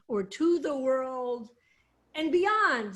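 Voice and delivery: to gets a gentle lift, then and beyond rises; stress on to. Shown as a demonstration. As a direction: stretch out or to the world and beyond. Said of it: "Le is the Lamed in front of Le'olam".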